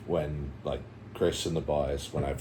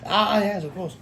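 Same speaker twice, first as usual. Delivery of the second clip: much higher, swooping theatrical inflection; showing inflection; 3 dB louder than usual. Shown as a demonstration. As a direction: exaggerate the rise and fall on every phrase. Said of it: "is that inflection?".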